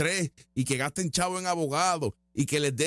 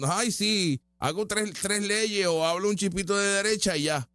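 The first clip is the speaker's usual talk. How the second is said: higher, dismissive mock tone; mocking leftist voice; 3 semitones higher than usual. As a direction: parody their smug excuse. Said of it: "Esta gente se cree que no". (burla sarcástica)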